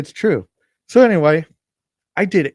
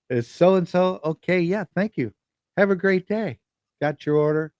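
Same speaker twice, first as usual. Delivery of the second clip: higher-pitched, courteous delivery greeting; polite people person; 5 semitones higher than usual. Retold or imitated. Delivery driver greeting a customer at the door, politely. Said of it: "I'm polite. I'm a people person".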